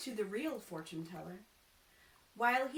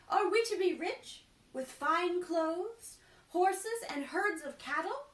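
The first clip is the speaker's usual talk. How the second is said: high, loud and pushy; demanding wife, loud and high; eager demand; 8 semitones higher, 7 dB louder than usual. Acted. Cloth merchant's wife demands her fortune, loud and high. Wife asks about riches.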